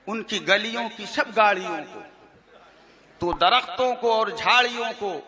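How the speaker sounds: tuneful verse recital, lightly mocking; reciting a rival's verses to make fun of them; mock poem recitation. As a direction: chant the couplets with a half-hidden smile. Recites mocked salaam verses.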